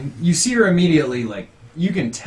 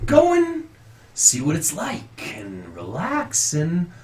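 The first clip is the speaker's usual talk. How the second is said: lightly voiced priest, pitch swinging higher in places; priest introducing cousin; 4 semitones higher than usual. Priest inviting the hunter to the tavern, lightly acted. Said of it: "he just says".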